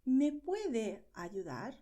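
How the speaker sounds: slow, clear request for help; slow model question. Shown as a demonstration. Teacher modelling a request for help, slowly. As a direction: ask slowly so learners catch each word. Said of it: "If you use usted".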